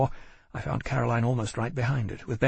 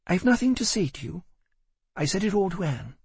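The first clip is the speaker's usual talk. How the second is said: a higher, cold Caroline brushing him off; clipped dismissal, pitched up; 8 semitones higher than usual. A narrator's reading. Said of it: "her expression was cold".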